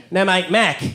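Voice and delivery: Aussie "No, mate, Mac" with the R dropped; laid-back Australian correcting his name; Australian accent. Retold or imitated. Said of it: "meeting an Australian".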